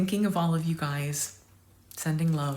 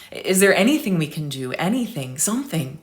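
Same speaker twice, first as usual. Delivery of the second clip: louder begging plea to the vet; pleading; 5 dB louder, faster than usual. Acted. Owner begging the vet to save the dog, pleading. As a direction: beg the vet for any hope.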